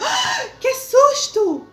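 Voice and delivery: high, slow shrieked fright; a loud, drawn-out startled cry; startled girl. Acted. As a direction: act out the girl's sudden scare. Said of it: "a menina falou".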